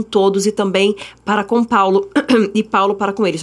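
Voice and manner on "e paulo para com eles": choking a little on the words; throat catching as if choking. Real, not acted. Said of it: "tô engasgada aqui".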